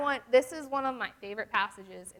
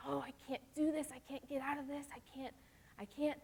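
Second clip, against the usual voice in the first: imitating a discouraged teen; 5 semitones higher, 7 dB quieter than usual. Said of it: "You just think that".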